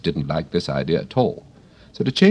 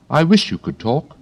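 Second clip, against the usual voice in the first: wistful wish; 9 semitones higher, 4 dB louder than usual. A narrator's reading. Alice wishing to a flower.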